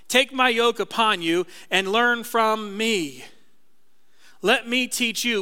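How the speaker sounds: slow, gentle Jesus voice; voicing Jesus. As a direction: speak as Jesus, slowly and gently.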